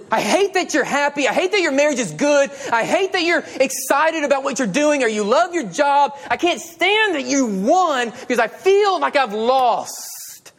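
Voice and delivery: a touch of petty resentment; envious person. Acted. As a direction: voice the jealous heart, mildly. Voicing envious people.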